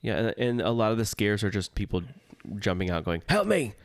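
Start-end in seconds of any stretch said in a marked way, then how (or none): 3.3-3.7 high mock cry for help; mock scare-actor shriek; scare actor plea. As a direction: squeal it like a haunt actor begging. Mimicking haunt actors jumping out.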